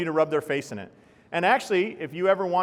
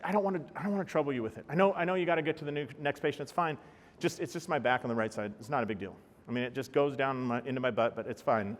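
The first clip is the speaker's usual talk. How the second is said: fast, softer, brushing off the pain; a patient hurrying not to bother the doctor; downplaying patient; 2 semitones lower, 6 dB quieter, faster than usual. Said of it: "They don't wanna go up because".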